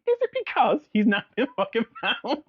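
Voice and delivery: high, mocking fake surprise; mock him sarcastically; sarcastic. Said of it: "I was like".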